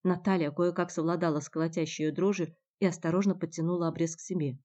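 plain reading voice

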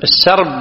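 short a after the s in السرب; fatha on the sin. Shown as a demonstration. Teacher explaining the vowel to students, السرب as as-sarb. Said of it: "بفتح السين".

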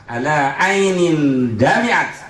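slow solemn recitation; slow chanted Arabic; recited Arabic. Acted. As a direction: draw out the hadith words. Quoting hadith.

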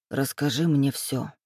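a lightly choked, worn-out plea; hoarse, choked voice. A narrator's reading. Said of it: "заметно севшим голосом". (севшим голосом, тихо и медленно)

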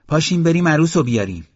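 high, loud, brisk call to a crowd; rally everyone loudly, quick and high; loud announcement. A narrator's reading. Mother calls the gathering to fetch the bride, loud. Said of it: "با صدای بلند به جماعت گفت".

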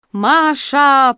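loud, high, drawn-out moan of a name. A narrator's reading. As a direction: wail the name in exasperation, stretching it. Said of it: "простонала Роза Васильевна". (протяжный стон отчаяния)

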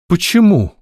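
high, startled question; taken aback. A narrator's reading. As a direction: caught off guard, asking why. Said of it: "опешила она".

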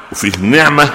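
نعمه said with i, niʕma; kasra reading. Shown as a demonstration. Sheikh contrasting vowels for students: نعمه as niʕma. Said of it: "غير النعمه بالكسر".

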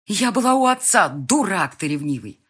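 wife's furious hiss at her husband; hissed insult. A narrator's reading. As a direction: spit it into the phone. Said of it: "прошипела я в трубку".

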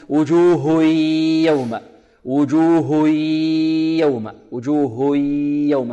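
وجوه يوم merged with no nasal hum, a student's error; merging without ghunnah. Shown as a demonstration. Quran teacher imitates students' mistake, merging without ghunnah. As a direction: join وجوه into يوم keeping the sound out of the nose. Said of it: "بغير غنة، يقول".

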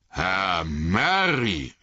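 the farmer surprised to see Merry; surprised farmer calling Merry's name. Acted. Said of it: "rief er".

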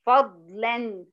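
slow, split "فضلًا": fad-lan; tanween as n. Shown as a demonstration. Teacher repeating before asking students, "فضلًا" slowly as fadlan. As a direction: hold the final n of "فضلًا". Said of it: "الفتحتين دول كأنها نون ساكنة".

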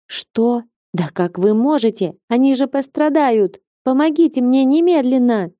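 put-on high-pitched, distressed young girl; squeaky girl. A narrator's reading. Girl demanding help from reluctant women, squeaky and upset. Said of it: "писклявая девчонка пытается их разнять".

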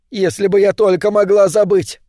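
anguished cry. Acted. Robot woman's anguished cry.

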